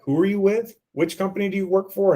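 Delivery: a hint of an annoyed prospect cutting in; mock rude prospect. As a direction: play the jerk who doubts the caller. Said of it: "And tell them to be a jerk".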